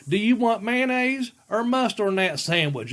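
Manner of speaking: high-pitched imitation of a wife asking; grandmother's question. Grandmother offers her husband condiments, high imitated voice.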